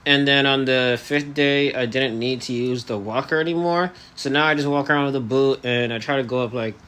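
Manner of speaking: talking through elastics in the mouth; jaw held shut. Real, not acted. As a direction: speak with the jaw barely moving. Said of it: "now I have, um, elastics in my, uh, mouth".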